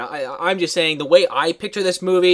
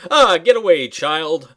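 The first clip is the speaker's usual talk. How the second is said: higher mock shoo-away; dismissive brush-off; 5 semitones higher, 5 dB louder, slower than usual. Friend mimics the busy family shooing the girl, dismissive. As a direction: wave the kid off with a mock huff. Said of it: "waving her away, like".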